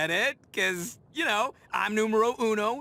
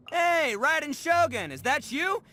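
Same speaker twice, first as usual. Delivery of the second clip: higher, cocky shouted dare; defiant taunt; 6 semitones higher than usual. Acted. Ito taunting Raiden Shogun in the storm, defiant. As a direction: dare the ruler to strike you.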